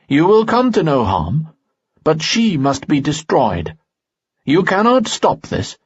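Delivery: a hint of an eerie spirit claiming his son; the ghostly father rejects the girl, coldly insistent. A narrator's reading. Harmon's voice in story.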